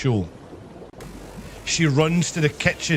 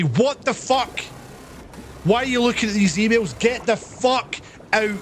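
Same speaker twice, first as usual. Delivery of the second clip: higher-pitched indignant re-enactment; mock-angry, voice raised in pitch; retold outrage; 7 semitones higher than usual. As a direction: act out catching a snooper. Acted confrontation with snooping girl.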